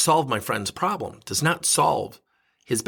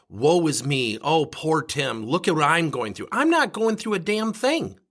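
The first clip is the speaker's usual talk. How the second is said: self-pity; 3 semitones higher than usual. Retold or imitated.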